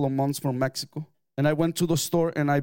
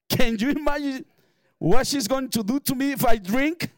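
laughing; 8 semitones higher, 4 dB louder than usual. Real, not acted. Laughing at his own story.

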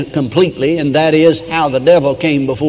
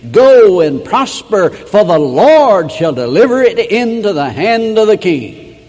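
sarcastic, higher and louder, slowly drawn out; mocking; 5 semitones higher, 4 dB louder than usual. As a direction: pretend to bless the king while mocking him. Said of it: "He's mocking the king".

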